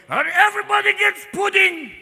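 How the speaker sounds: high, loud gleeful cry; demented old pope. Acted. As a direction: crow it like a batty old pontiff. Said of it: "full-blown dementia going".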